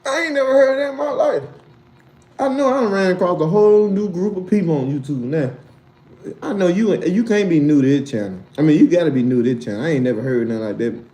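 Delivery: loud disbelief; shocked rant. Real, not acted.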